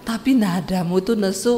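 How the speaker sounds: mild husband. Acted. Husband answers loud wife.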